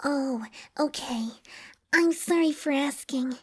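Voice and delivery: small, soft, high voice; timid apology. A narrator's reading. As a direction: shrink back and apologise very quietly. Timid pony apologises in whispered exchange.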